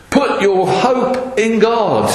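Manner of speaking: high, drawn-out call at no great volume; mock shout. Preacher voices David suddenly answering himself, mock shouting. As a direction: call it out slowly, pitched well up. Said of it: "from the top of his voice".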